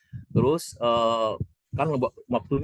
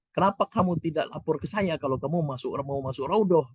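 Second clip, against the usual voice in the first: higher, questioning Arab man voice; imitating the Arab man; 7 semitones higher than usual. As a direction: replay the stranger's demand. Arab man's question translated. (menirukan orang Arab bertanya dengan nada tinggi)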